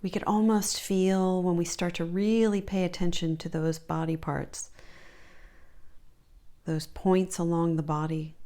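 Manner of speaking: calm, measured body-scan guidance with long pauses; unhurried meditation teacher voice; guided meditation. Real, not acted. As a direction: lead them gently through the body, leaving space between phrases.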